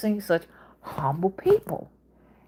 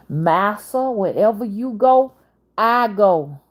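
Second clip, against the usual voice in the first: enslaved servant's voice; 3 semitones higher, 3 dB louder, slower than usual. Retold or imitated. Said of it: "I'm just doing a narration of what they talked about".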